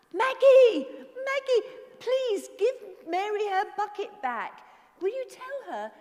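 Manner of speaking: high, loud scolding. Real, not acted. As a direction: tell off the naughty bird.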